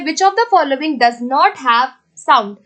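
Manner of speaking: very slow, word-by-word reading of the question; deliberate dictation pace. Shown as a demonstration. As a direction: read the exam question out slowly and clearly. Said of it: "so next question है".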